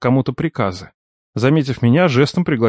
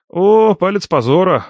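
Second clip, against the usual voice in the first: mock dramatic; 6 semitones higher than usual. A narrator's reading. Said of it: "разошёлся я".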